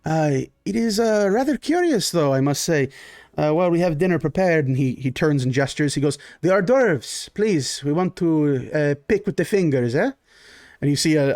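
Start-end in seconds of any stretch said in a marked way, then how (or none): 0.0-2.9 lightly voiced genteel Baron. GM as the Baron greeting his guests: lightly voiced genteel host. 6.4-10.1 a hint of a gracious noble host, a little higher; lightly voiced genteel Baron. GM as the Baron greeting his guests: lightly voiced genteel host.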